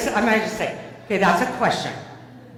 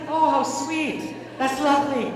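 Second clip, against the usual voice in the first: mock sweetness; 6 semitones higher than usual. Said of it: "it just was like".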